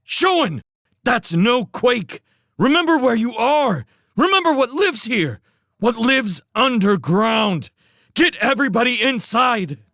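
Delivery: high, loud desperate warning; urgent shout. Acted. Felix shouts a desperate warning to Showen.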